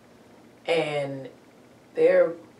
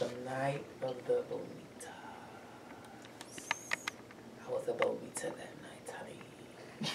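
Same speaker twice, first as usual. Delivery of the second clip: talking around a piece of ice; whispered words with ice in mouth; 3 semitones lower, 13 dB quieter than usual. Real, not acted. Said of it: "Oh, I have ice in my mouth".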